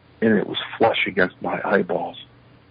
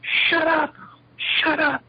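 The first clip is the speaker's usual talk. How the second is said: much higher, slow "shut up, shut up"; the agent hushing a bloodied kid, much higher mock voice; mock Chief hushing; slower than usual. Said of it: "And he said".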